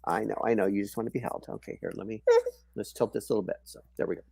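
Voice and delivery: whispered shushing, then soft murmurs. Real, not acted. Mother hushing her baby on her lap, whispering.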